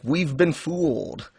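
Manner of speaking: mock dismay. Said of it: "And it's like".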